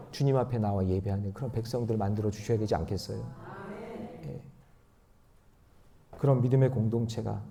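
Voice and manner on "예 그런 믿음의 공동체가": ordinary talk, nothing marked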